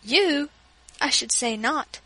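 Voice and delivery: a sharp scornful put-down. Acted. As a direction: brush the boy off with scorn. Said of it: "looked scornfully at Louis".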